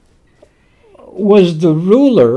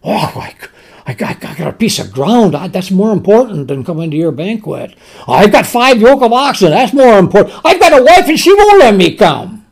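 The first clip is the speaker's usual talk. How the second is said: mocking excuse-maker; faster than usual. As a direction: sneer through the excuses, rising to a yelped whine. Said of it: "And when that was mocked".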